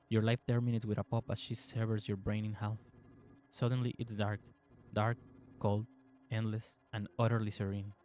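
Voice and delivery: even, measured game narration; story narration. A narrator's reading. Player reading the game's story to viewers, measured narration. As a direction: read the tale out evenly, restrained.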